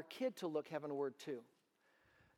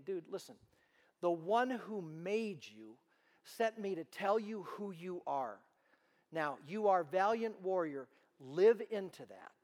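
slow, a hint of an earnest angel; angel explaining; slower than usual. Angel telling Gideon who he is, slow and earnest. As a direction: lay it out slowly and firmly.

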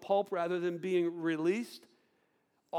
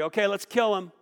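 eager agreement; 5 semitones higher, 14 dB louder than usual. Retold or imitated. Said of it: "they all agree".

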